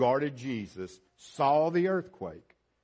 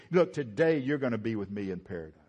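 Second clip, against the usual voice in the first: a touch of tenderness, quick and understated; lightly tender reassurance; 3 semitones lower, faster than usual. Retold or imitated. Jesus comforting the repentant thief: mildly tender, brisk. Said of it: "he said it in a tender voice".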